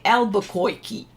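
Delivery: lightly imitated cartoon accent on Albuquerque; Bugs Bunny. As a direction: say Albuquerque with a hint of a funny "koy-key" accent. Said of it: "He'd be saying it in this funny accent".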